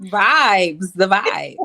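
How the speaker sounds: drawn out, loud, sing-out emphasis; signature catchphrase. Real, not acted. Co-host chiming in on the vibe, signature catchphrase. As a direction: hit the catchphrase loudly. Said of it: "once she said it like that".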